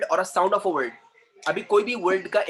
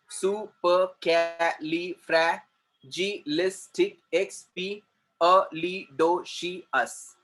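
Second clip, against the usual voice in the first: slow "Supercalifragilisticexpialidocious", each syllable its own beat; short gaps between all fifteen syllables of "Supercalifragilisticexpialidocious"; cut into syllables; much slower than usual. Shown as a demonstration. Teacher counting fifteen syllables, "Supercalifragilisticexpialidocious" broken apart. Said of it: "Fifteen syllables are there".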